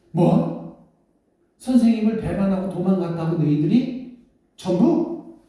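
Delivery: can't believe they all fled; shocked disbelief. Acted. Mary shocked by desertion. (놀라서 되묻는)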